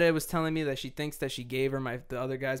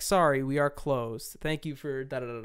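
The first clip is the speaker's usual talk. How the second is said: robot voice. Retold or imitated. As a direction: sound like a drive-thru robot. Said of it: "the intercom has a robot voice".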